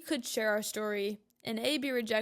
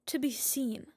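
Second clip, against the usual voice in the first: a real hushed confession; whispered. Real, not acted. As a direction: breathe it out as a whisper. Emotional point about connection.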